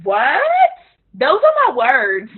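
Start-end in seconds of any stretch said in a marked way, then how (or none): 0.0-0.4 gushing excitement. Shown as a demonstration. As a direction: act out her own over-the-top hype words. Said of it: "I'm doing".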